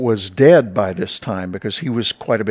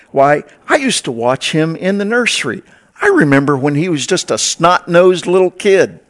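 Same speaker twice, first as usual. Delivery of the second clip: higher, mock-gossipy church lady; lightly voiced church busybody; gossipy congregant; 5 semitones higher, 4 dB louder than usual. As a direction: tease like an old nursery volunteer. Congregant gossiping about Pompeo.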